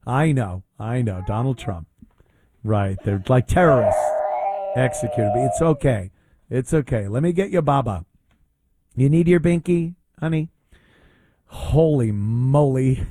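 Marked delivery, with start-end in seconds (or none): 0.0-10.5 mock baby comfort. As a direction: soothe her like a toddler, teasing.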